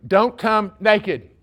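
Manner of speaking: "Don't come naked" laid down slowly, each word weighted; slow emphatic rule. Acted. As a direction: spell out the dress code, word by word. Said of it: "Here's the dress code".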